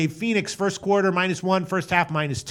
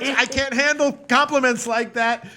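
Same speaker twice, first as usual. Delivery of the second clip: mock tearful; 7 semitones higher than usual. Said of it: "I'm gonna cry".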